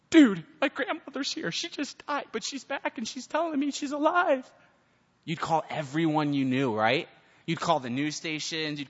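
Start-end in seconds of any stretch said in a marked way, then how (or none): 0.1-4.5 excited. Retold or imitated. Stunned grandson calling out news.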